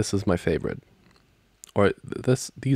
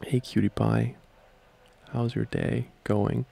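lightly cutesy, slower and higher greeting; cuter voice; 3 semitones higher, slower than usual. Shown as a demonstration. Trying a pet name on a partner, cuter voice. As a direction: coo it gently to your sweetheart, drawing out the question. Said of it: "maybe in a cuter voice".

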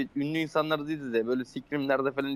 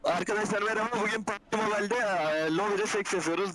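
higher-pitched put-on host voice; mock streamer intro; 4 semitones higher than usual. Player hijacks friend's video recording, mock streamer intro. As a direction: parody a YouTuber's opening hello.

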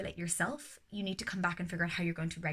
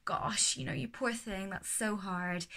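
sympathetic tutting; slower than usual. Shown as a demonstration. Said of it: "just the tutting".

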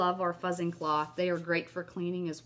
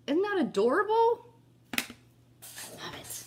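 delighted gush; 12 semitones higher than usual. Real, not acted. Showing viewers the tag, delighted. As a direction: coo over the cute tag.

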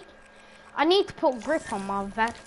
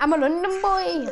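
put-on broad London accent, higher; 5 semitones higher than usual. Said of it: "most Londonish accent you can put on".

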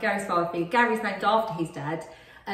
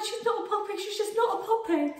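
high-pitched mock crying plea; retold tearful protest; 10 semitones higher than usual. Retelling a tearful call to partner, mock upset. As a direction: imitate yourself upset on the phone, high. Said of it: "And I rang you crying".

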